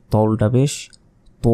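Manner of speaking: ত উল্টা পেশ তো said with a thick, heavy ত; heavy pronunciation. Shown as a demonstration. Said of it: "মোটাভাবে উচ্চারণ হবে".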